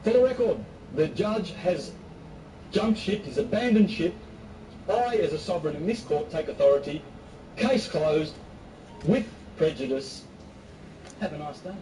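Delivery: formal announcement. Retold or imitated. Defendant proclaiming to the court he takes authority, mock formal. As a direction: announce it like taking over the court. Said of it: "he immediately announced".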